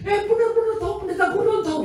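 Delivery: high, loud excited blurting; an excited young woman, much too loud. Retold or imitated.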